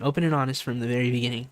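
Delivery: quick throwaway recap of the motto; rushed repeat. Real, not acted. Streamer quickly repeating motto, fast. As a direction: rattle it off fast. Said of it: "I always say".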